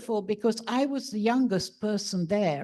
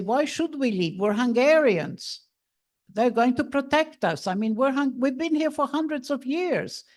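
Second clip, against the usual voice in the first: raised, insistent voice of a relative who refuses to leave; louder, protest as if the idea is absurd; indignant relative; 6 semitones higher, 7 dB louder than usual. Retold or imitated. Relative at dinner protesting the talk of leaving, raised and indignant. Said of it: "one of them would pipe up and say".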